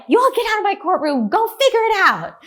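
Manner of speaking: high, loud, fast ejection from the courtroom; fed-up judge ordering two lawyers out, loud and high; angry judge. Retold or imitated. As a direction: throw them out like a furious judge.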